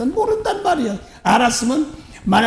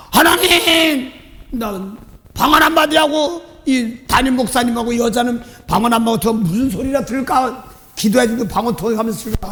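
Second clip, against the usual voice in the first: pleading prayer. Retold or imitated. His inner prayer retold.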